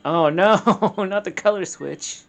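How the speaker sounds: loud, high wail of dismay; exaggerated high-pitched "oh no"; dismayed groan. Real, not acted. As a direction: cry out in playful dread, drawing it out. Mock dread at disliked dungeon.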